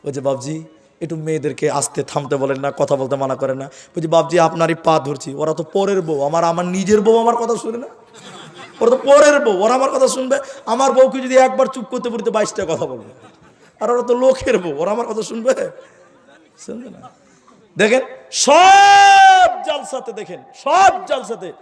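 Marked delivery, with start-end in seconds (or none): 0.2-17.1 mock pleading of an old man, rising and louder as he goes; hammed-up complaint about his own wife, half laughing; elder pleading. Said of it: "এরকম মুরব্বী মানুষ". 17.8-20.1 high, loud, drawn-out call to the crowd; full-force preacher's cry; preaching shout. Real, not acted.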